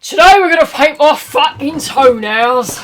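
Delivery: loud, slow, high sultry put-on voice; sexy voice. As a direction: ham up a seductive streamer voice. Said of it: "Should I do the sexy voice".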